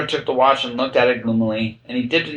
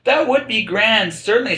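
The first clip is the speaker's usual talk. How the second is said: softly; 10 semitones higher than usual. A narrator's reading. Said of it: "said Alice softly".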